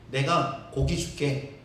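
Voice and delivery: slow, low, deliberate promise; lightly voiced slow stern God; God's voice. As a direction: speak as God, measured. God answers Moses.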